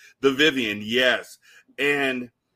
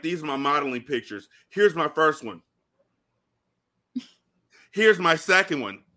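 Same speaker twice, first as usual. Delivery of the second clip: higher mock film-character voice, building louder; imitated modeling dude; 4 semitones higher, 4 dB louder than usual. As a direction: imitate a dude presenting his modeling pictures. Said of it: "It's like the fucking dude on".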